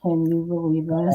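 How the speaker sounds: hollow echo on the call. Real, not acted. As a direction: voice echoing back on the line. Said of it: "Sorry for the echo".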